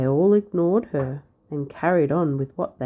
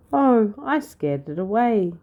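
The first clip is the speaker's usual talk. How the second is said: cackling; 6 semitones higher, 5 dB louder than usual. A narrator's reading. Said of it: "cackled Arabella".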